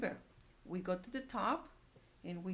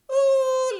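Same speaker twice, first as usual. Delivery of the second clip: surprised ooh; 15 dB louder than usual. Real, not acted. Teacher reacting to Gerald's face.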